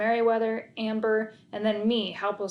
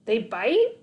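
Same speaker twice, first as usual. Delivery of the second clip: worried; 6 dB louder than usual. A narrator's reading. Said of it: "cringed with concern".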